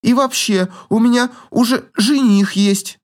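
put-on haughty young lady's boast; boastful girl. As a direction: brag about her fiancé.

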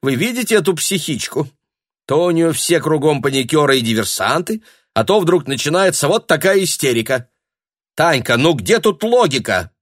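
mock her to the others; scornful mockery. A narrator's reading. Lyudmila mocking Tanya's hysteria. (презрительно)

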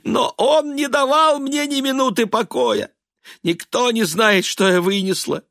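высоким надрывным голосом сквозь слёзы; причитай, плача. A narrator's reading. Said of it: "Элиза заплакала". (Элиза плачет перед сыном, высоко и надрывно)

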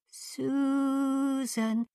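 far-off, drawn-out call of a name; eerie distant voice through the storm. Acted. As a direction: call from far away in the wind. Distant voice calling again.

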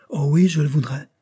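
breathless whispered yes; sick wife whispering her eager wish to her husband. A narrator's reading. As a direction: whisper it, feverish and hopeful. Feverish wife answers eagerly.

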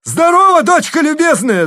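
very high, loud thundering greeting; father thundering mockingly at his daughter. A narrator's reading. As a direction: boom it down from the roof. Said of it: "загремел сверху Харлов".

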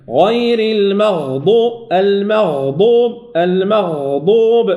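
المغضوب slow, the غ drawn out; held غين. Shown as a demonstration. Teacher modelling the long غ in المغضوب. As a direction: stretch the غ in المغضوب. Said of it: "تحتاج إلى زمن أكثر".

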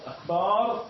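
rising, drawn-out second syllable in "أكبر"; added alif. Shown as a demonstration. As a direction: stretch the a between b and r in "أكبر". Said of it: "زاد ألفا بين الباء والراء".

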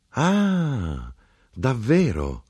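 light surprised exclamation; exclaimed. Acted. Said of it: "l'uomo esclamò".

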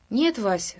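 plain reading voice

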